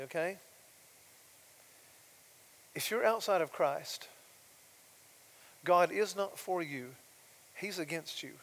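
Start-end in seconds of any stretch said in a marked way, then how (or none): 2.7-8.3 softly and tenderly. Shown as a demonstration. Preacher gently telling listeners God is against them, tender. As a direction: say the hard truth tenderly. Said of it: "I wanna say this softly and tenderly".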